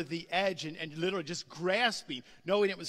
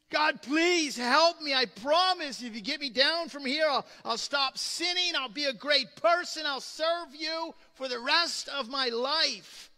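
pleading; 6 semitones higher, 5 dB louder than usual. Retold or imitated. Jack pleading on the cliff.

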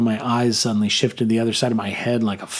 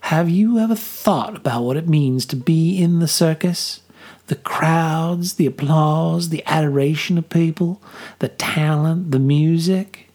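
Millie's voice; 5 semitones higher than usual. A narrator's reading.

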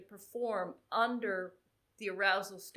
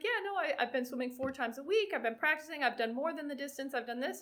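imitating anxious swimmer; 5 semitones higher, faster than usual. Anxious swimmer listing her preparation.

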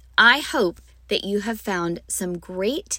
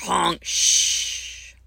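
shh; 3 semitones lower than usual. Shown as a demonstration. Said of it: "keep adding on sounds".

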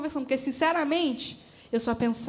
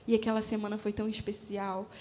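ordinary delivery

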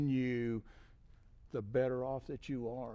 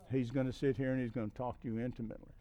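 softer, lower, confiding voice; intimate low talk; 3 semitones lower, 5 dB quieter than usual. Shown as a demonstration. Preacher showing how God talks to you intimately, talking low. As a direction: drop the voice as if speaking privately up close. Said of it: "We can talk real low".

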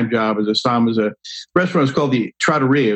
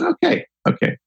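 reluctant giving in. Retold or imitated. Giving in to the begging rep.

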